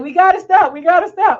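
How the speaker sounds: retold urgent plea. Nagging her husband in the car to pull over, loud and urgent. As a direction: hammer it like you're begging the driver. Retold urging driver to stop.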